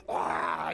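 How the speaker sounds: short acted-out scream; mock scream. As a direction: let out a sudden wild yell. Acting out the scary possessed man.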